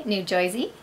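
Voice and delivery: "New Jersey" said as "Noo Joizey" in a New Jersey accent; a quick New Jersey twang on "Jersey", like "Joizey". Shown as a demonstration. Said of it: "I had to recently do New Jersey".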